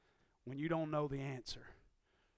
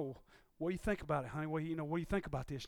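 wife asking; faster than usual. Retold or imitated. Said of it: "your wife asks you".

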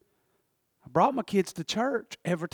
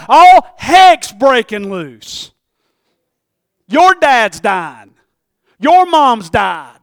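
slow heavy lament; 2 semitones higher, 15 dB louder, much slower than usual. Acted. Preacher slowly listing the family's troubles. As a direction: drag each line out slowly.

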